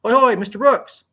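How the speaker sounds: slow, high, loud hail down the street; calling out. A narrator's reading. Doctor Carl hails Onyx down the street, loud and high. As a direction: hail him from afar, drawn out. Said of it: "voice calling for him down the way".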